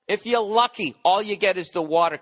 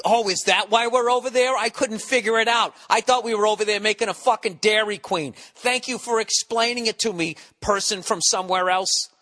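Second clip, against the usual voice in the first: higher, mock-grateful, dripping sarcasm; sarcastic; 4 semitones higher than usual. Real, not acted. Mocking a foreign critic with fake gratitude. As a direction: thank them as if they're a genius.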